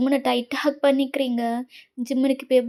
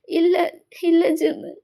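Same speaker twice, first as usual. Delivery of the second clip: crying refusal; slower than usual. Acted.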